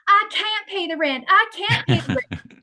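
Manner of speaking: high, pleading damsel voice; damsel in distress. Retold or imitated. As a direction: wail it like a helpless damsel. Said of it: "she would go like this".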